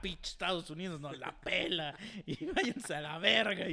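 gloating jeer with a laugh; mocking taunt. Fan taunting the rival team, mocking. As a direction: rub the loss in their faces. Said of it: "yo sí puse así".

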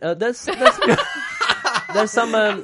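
strained, forced denial through teeth; through gritted teeth. Real, not acted. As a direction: insist it's fine through clenched teeth. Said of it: "When you say it through gritted teeth".

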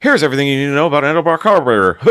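high, loud, rapid-fire video-host impression; Uncle Tony. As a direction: rattle it off loudly in a put-on high voice. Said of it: "the one where he's like".

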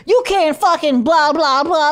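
hammed-up scolding; retold yelling. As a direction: imitate an indignant tirade, slowly. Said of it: "just yelling at this dude".

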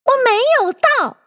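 very high, furious mouse; indignant high-pitched denial; fierce anger. A narrator's reading. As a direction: snap back in a high, angry voice. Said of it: "很凶很怒的道".

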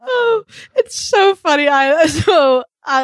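high, laughter-squeezed voice; real laughter. Real, not acted. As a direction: talk while getting over a laughing fit. Recovering from a laughing fit.

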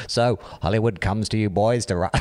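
shaky attempt at Liverpudlian accent; terrible Liverpool band accent. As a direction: badly fake a Liverpool accent. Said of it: "Is that Liverpudlian?".

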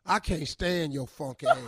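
acted fed-up husband; mildly hammed-up exasperation; frustrated. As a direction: finally blurt out the pent-up frustration. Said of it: "get frustrated and raise your voice".

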